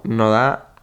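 "no da" slowed right down, British lilt with a rising end; "no da" in a mock British accent; UK version. Shown as a demonstration. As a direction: drawl "no da" like a Brit, rising at the end. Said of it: "versión Reino Unido".

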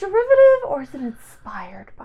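sly whispered question, breath only; whispered aside. Real, not acted. Cohost whispers a sly aside about the show's originality. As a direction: lean in and whisper it like a secret.

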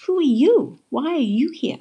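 high-pitched, curious questions; puzzled questioning. A narrator's reading. Jessie questioning a talking flower, surprised. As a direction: ask in wide-eyed surprise.

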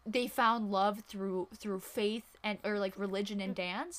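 slow, drawn-out mock-solemn reading; x0.5 deliberate, stretched-out delivery; slow deadpan recital. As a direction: savor each word of the ridiculous summary. Reciting the absurd movie summary.

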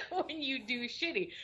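laughing through the words. Real, not acted. Laughing as he describes the teasing. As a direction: chuckle while saying it.

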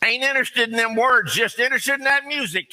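mock high-pitched guy from a video clip; imitated music fan. Preacher mimicking a man from a clip, high-pitched mock voice. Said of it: "I ran onto one guy, and he was doing his stuff, and he said".

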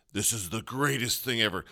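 a hint of a self-important British accent, mocking; pompous British accent. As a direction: lightly parody a hoity-toity British narrator. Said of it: "this hoity-toity British accent".

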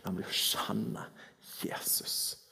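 softly, dropping to a whisper on Jesus; hushed. Acted. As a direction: let the name fall to a hush. Preacher hushes key name.

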